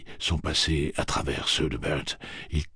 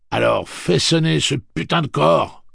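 fierce urging; 11 semitones higher, 10 dB louder than usual. Acted. Urging the last horn call.

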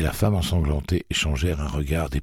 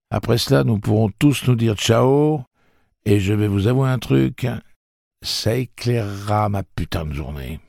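raised, hard voice of a gunman; tough threat; 6 semitones higher than usual. A narrator's reading. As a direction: bark the order at them, pistol raised. Eddie threatening at gunpoint.

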